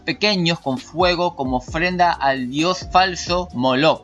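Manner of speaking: slow, deliberate commentary reading; emphatic read-aloud. Acted. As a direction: read it out in measured, stressed phrases. Lee el comentario en voz alta. (lectura enfática y pausada)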